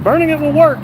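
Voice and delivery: exclamatory reading. Retold or imitated. Streamer reading a viewer's excited comment aloud, exclaiming. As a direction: read the chat comment out with a big exclamation. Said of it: "Exclamation point".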